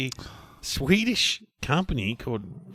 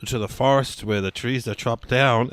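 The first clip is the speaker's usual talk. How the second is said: put-on Swedish accent. Acting Eric, Swedish timber man.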